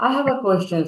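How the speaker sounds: "I have a question" with a clear rising question lift; lifted, polite "I have a question". Shown as a demonstration. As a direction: ask it as a real question to the teacher. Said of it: "that should have question".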